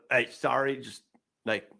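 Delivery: mildly pleading, halting apology. Acted. Giant woman asking onlookers to stop filming, mildly pleading. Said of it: "pleading with people going".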